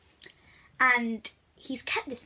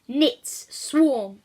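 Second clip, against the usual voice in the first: ringing command, a bit louder; a boy villain calling out an order; called command; 2 semitones higher, 5 dB louder than usual. Acted. Knit Boy calling his nits to swarm, commanding. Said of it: "called out his first command".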